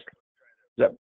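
distorted robotic voice filter; like a glitchy voice changer. Real, not acted. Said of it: "You became Mister Roboto for a minute".

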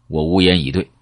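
plain reading voice

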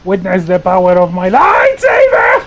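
mock grand shout of a Sith lord; hammy villain boast. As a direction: declaim it like a movie villain. Hammy boast while attacking.

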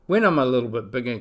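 quick, eager little owl; little morepork. Acted. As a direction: rush it like an excited chick. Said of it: "cried the morepork".

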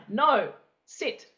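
"No, sit" with the tone dropping on each word; falling command tone. Shown as a demonstration. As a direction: direct dog command, voice going down on "No" and "sit". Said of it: "your tone of your voice goes down".

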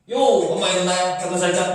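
mock rap reading opening on a shouted-out 요; lightly imitated rapper flow; like a well-known rapper. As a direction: run it together like a rap bar. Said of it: "비와이 같은 래퍼들이 오시면".

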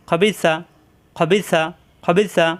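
খবিসা read whole with a heavy throaty kh; drilled recitation. Shown as a demonstration. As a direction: repeat খবিসা slowly, like a teacher drilling. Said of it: "খ বি সা".

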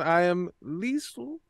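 pompous aristocrat, lightly voiced; a self-important noble introducing himself; posh noble character. Plays a stuffy noble character.

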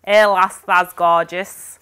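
Yorkshire "Hey lass", slow drawn "that's gorgeous"; broad Yorkshire phrase. Shown as a demonstration. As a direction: savour the Yorkshire saying. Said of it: "I've got".

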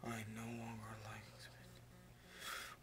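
whispered flat text read; slow quiet reading of a message; reading a text aloud. Retold or imitated. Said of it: "I got a text from Venom".

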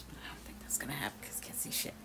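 fast whispered aside to herself; quick under-the-breath grumble; muttered aside. Real, not acted. Grumbling to herself that she can't see, fast whisper. Aside about needing glasses.

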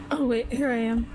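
ordinary talk

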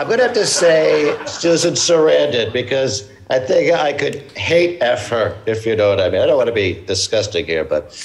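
lightly voiced Trump character; a hint of Trump bluster; Trump impression. Comedian plays Trans Trump character.

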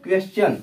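क्वेश्चन repeated as "क्वेस-चन", with a clear s before the ch; correct pronunciation. Shown as a demonstration. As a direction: say क्वेश्चन again the right way, "क्वेस-चन". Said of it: "क्या बोलेंगे?". (क्वेश्चन दोबारा सही उच्चारण में)

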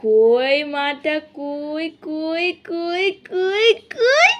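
drawn-out teasing calls, breaking into a laugh; slow playful peekaboo. Acted. Mother playing hide and seek with her baby, slow and teasing. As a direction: stretch out each call, then laugh.

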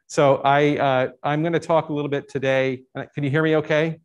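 muffled behind a face mask; through a mask. Real, not acted. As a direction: speak with a mask over the mouth. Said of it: "through the mask?".

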